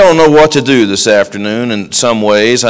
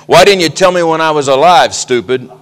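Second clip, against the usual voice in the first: higher, mock scolding old lady; a recorded scolding from the grave, lightly played; old lady scolding from casket; 5 semitones higher than usual. Elmira scolding mourners from her casket, mock. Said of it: "it'll be my voice saying".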